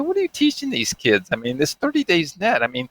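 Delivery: high, indignant mock rebuke; exasperated scolding. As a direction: scold the school for not paying. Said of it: "call 'em up and say".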